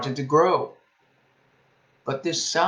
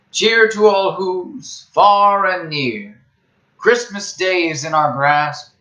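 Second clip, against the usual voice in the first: Whoville carol. A narrator's reading. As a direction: chant it warmly like a song. Whos' Christmas song, recited.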